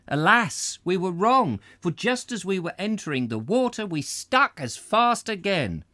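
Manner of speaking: milk the disaster; hammed-up alas; mock dramatic. A narrator's reading. Dramatic turn in story.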